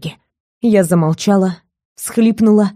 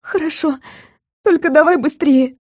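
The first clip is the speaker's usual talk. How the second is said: sobbing agreement; 6 semitones higher than usual. A narrator's reading. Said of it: "всхлипнула я".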